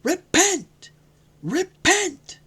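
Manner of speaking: high, loud cries of repent. A narrator's reading. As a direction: call the crowd to repent at the top of the voice.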